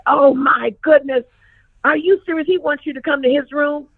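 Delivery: a worried father catching his breath; alarmed dad. Retold or imitated. Dad alarmed about Basie's invitation.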